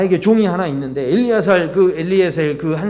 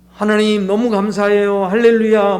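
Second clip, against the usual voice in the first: grateful rejoicing; 3 semitones higher than usual. Pretend. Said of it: "이렇게 해야 이게 정상이지".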